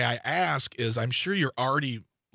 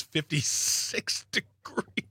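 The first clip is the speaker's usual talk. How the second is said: crying; 3 semitones higher, much slower than usual. Pretend. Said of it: "Are you crying over there?".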